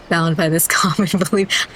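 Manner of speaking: words broken by a real laugh on common; laughing mid-line. Real, not acted. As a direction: giggle through bound by this common belief. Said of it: "I just didn't want to say the other ones".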